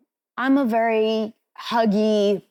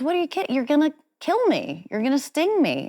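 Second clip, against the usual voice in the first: alarmed frog; 9 semitones higher, faster than usual. Retold or imitated. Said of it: "And the frog goes".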